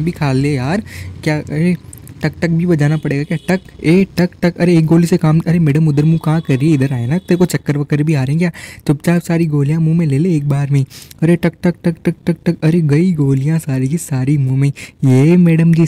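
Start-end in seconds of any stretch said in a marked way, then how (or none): 3.5-4.6 slow, spaced-out "tak" sounds; voiced tap-tap sound effect; imitated tapping noise. Mimicking a tapping sound in game. 11.4-12.6 rapid-fire string of "tak" sounds; voiced tap-tap sound effect; imitated tapping noise. Mimicking repeated taps in game.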